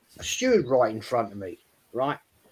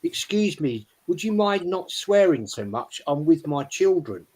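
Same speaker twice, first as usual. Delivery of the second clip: lightly mocked posh English accent; 3 semitones higher than usual. Posh mother asks swearing fan to stop, mock posh accent. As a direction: imitate a well-to-do mother in posh tones. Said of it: "very posh accent, she went".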